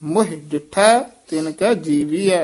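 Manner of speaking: ਮੋਹ as short "muh", h sounded; short vowel with h. Shown as a demonstration. Teacher modelling the verse, ਮੋਹ as "muh". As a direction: open the line with a brief ਮੋਹ, breathed h. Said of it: "ਮੋਹ ਉਚਾਰਨ ਕਰਨਾ".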